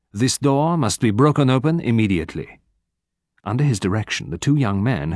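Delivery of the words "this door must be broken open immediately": firm order, pitched up; stern command. A narrator's reading. Stern man ordering the group to break the door open, commanding.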